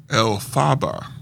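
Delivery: Elphaba with the stress on FAH; mispronounced name. Real, not acted. Reader misreading the witch's name, stress on the middle of Elphaba.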